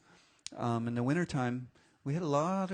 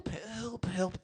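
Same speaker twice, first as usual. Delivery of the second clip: calling for help. Acted. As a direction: stretch it into a wail, ending in repeated cries. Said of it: "remember what they sounded like".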